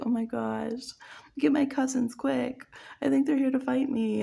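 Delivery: hammed-up fake alarm; mock panic. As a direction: squeal for the cousins in mock fright. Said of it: "They're like".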